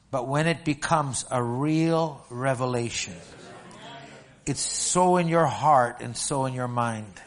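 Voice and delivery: slow, weighty sermon delivery; slow preaching. Acted. Pastor teaching his church about revelation, slow and weighty. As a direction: lay each phrase down deliberately.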